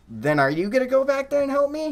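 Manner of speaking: high-pitched, incredulous demand; retold indignant challenge. Employee demanding manager's help in kitchen, high retold indignation. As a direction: challenge the boss, voice climbing high.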